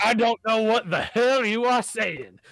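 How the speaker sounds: a hint of a cranky old man yelling; grumpy old man shouting. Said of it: "starts shouting in a language that you don't recognize".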